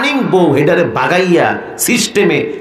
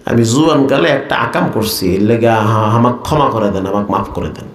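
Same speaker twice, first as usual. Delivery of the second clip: acted nervous old uncle begging pardon; frightened pleading; 3 semitones lower than usual. Trembling uncle confesses to the caliph, frightened pleading. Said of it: "হাত পা কাঁপা শুরু হয়ে গেছে".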